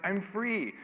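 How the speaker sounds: mock joyful sob through a laugh; teary joyful cry. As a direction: imitate tearful relief breaking free. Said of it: "she was crying again".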